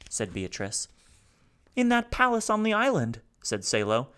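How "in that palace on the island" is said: high, loud, rasping despair; raspy robot. A narrator's reading. Grieving robot begs the family to kill him, raspy and high. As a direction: rasp it out, begging to die. Salo answers.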